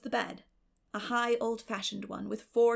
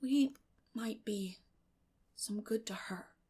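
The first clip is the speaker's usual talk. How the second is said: sudden; slower than usual. Acted. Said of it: "said Matthew suddenly and unexpectedly".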